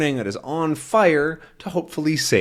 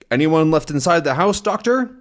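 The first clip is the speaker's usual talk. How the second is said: fireman asking; 5 semitones higher than usual. Acted. Fireman asks doctor.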